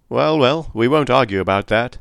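easy, genial shrug-off; good-humoured. Acted. Police captain defusing McGinty's jibe, good-humoured. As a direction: laugh the quarrel away lightly. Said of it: "said the police officer good-humouredly".

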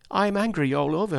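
high-pitched indignant retort; mildly heated, pitch jumping up; roused anger. A narrator's reading. Joe answering John on his anger, roused. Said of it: "wonderful to see him so roused".

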